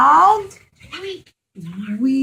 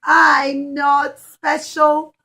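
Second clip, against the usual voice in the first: a tearful, sobbing complaint; crying fig tree. Acted. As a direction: cry out that you're not special. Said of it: "the fig tree cried and he said".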